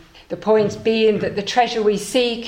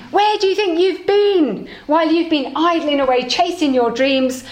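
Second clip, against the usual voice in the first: cross wife; 7 semitones higher than usual. Acted. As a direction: tear into him for wasting days. Cross wife greets returning husband.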